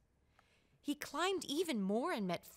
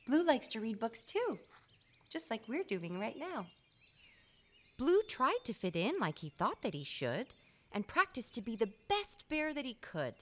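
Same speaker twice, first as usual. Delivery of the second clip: lively, sing-song rhyme reading; reading to a child. A narrator's reading. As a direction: read the rhymes aloud to a little one. Reading picture book to child.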